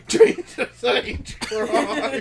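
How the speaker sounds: put-on slow, drawn out British accent oath; hammed-up British accent; laughing British accent; bad British accent. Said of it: "That in the accent you have down".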